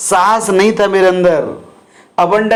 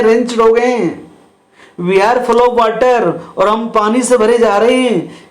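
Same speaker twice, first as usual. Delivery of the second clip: raised-pitch mock scream of warning; alarmed shout; 5 semitones higher than usual. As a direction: cry out to the husband that the ship is sinking. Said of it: "scream लो".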